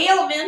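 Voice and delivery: "Ailment" for almond, starting like "ale"; accented pronunciation of almond. Shown as a demonstration. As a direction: offer "Ailment" with a questioning lift. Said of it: "with accents say".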